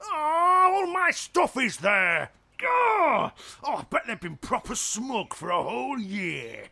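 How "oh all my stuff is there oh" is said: comic wail. Acted. Emperor wailing that raiders hit his home province. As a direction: whine like your toys were taken.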